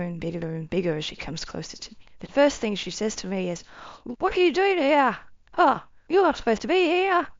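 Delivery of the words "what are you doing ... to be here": put-on high, scolding older woman voice; great-grandmother scolding the intruder, pitched high and frustrated. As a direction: chide her like an exasperated ancestor. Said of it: "She's so frustrated with me".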